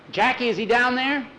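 high, urgent question; alarmed question. Acted. Searching for missing Nikolai.

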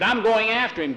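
high, determined burst; urgent insistence. Acted. Insisting on rescue.

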